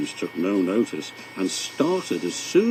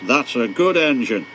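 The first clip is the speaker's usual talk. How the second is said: kind; 4 dB louder than usual. Acted. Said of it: "said the Fat Controller kindly".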